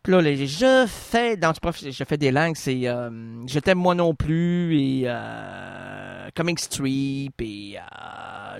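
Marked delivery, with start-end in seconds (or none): 3.5-8.6 mock English accent in French, lightly sung. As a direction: croon it like a singer with an English accent. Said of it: "comment tu fais l'accent anglais". (accent anglais chanté, exagéré)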